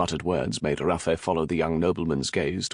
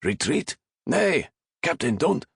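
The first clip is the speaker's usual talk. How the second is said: protesting sailors; 10 semitones higher than usual. Acted. Crew protesting the order.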